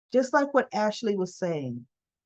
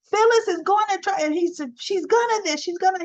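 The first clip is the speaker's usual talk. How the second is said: mock complaining; 10 semitones higher than usual. Diane complains about Phyllis.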